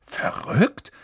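unbothered. A narrator's reading. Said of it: "sagte Percy unbekümmert".

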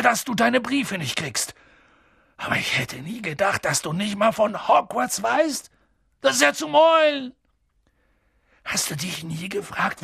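hoch und empört, großer Riese; empörter Riese. A narrator's reading. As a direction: ein Riese, fassungslos über die Dursleys. Hagrid empört über die Dursleys. (Hagrid regt sich über die Dursleys auf, empört)

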